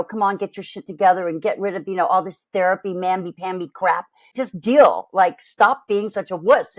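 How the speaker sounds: fast, hectoring parental nag; lightly voiced bossy parent telling you to toughen up. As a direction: scold yourself like an officious parent. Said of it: "like a parental".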